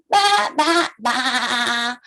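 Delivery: low sheep baa; sheep bleating. Acted. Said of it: "The sheep's on a farm say".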